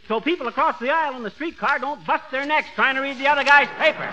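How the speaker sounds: loud, high, eager sales pitch; excited pitch. Acted. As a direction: sell it with rising gusto. Fibber pitches ideas excitedly.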